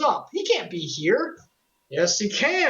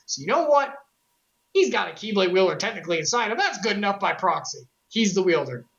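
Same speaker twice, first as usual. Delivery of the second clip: the Keyblade talking. Retold or imitated. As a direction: let the sword speak up for its kid. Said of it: "personifying it".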